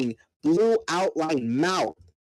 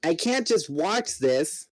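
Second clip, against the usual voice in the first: yelling; 4 semitones higher, slower than usual. Acted. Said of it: "Tobias yelled".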